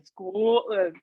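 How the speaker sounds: "Scotland" with its first vowel stretched long; dragged-out vowel. Retold or imitated. Host retelling his complaint about her accent, "Scotland" mockingly drawn out. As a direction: drag out the first part of "Scotland". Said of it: "drag that bit out".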